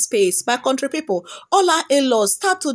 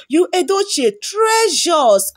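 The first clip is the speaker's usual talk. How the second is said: slow cheering shout; 4 semitones higher than usual. Real, not acted. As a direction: cheer him on like a fan. Cheering him on, shout heard.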